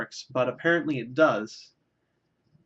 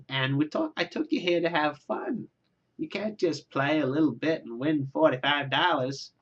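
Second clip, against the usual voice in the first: a lightly voiced nagging mother; imitating mother. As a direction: lightly play the insistent mother. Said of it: "This is not how my mother sounds".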